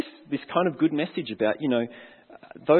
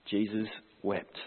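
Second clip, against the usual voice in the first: hushed; 5 semitones lower, 10 dB quieter, slower than usual. Real, not acted. Preacher reads shortest verse slowly.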